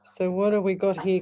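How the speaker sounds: hushed whisper to herself. Real, not acted. Host whispering while reading a caller's message. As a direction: breathe the words out as she tunes in.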